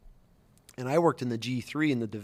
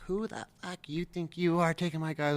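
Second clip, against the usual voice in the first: lightly voiced indignant woman sergeant, higher; mock confrontation, pitch raised a little; retold challenging sergeant; 4 semitones higher, 4 dB quieter than usual. Staff sergeant challenges him over her guys, retold indignation. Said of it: "And she's like".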